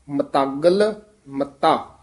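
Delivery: ਮਤਾਗਲ said firmly as one word; ਮਤਾਗਲ joined up, short break, then ਮੱਤਾ; tightly pronounced. Shown as a demonstration. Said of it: "ਮਤਾਗਲ ਵੀ ਕਸ ਕੇ ਬੋਲਣਾ ਹੈ".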